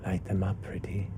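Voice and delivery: little voice in head. Acted. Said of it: "a little voice just says".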